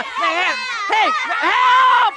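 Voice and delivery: high panicked yells for help; scared and angry. Acted. Kids attack, cries for help.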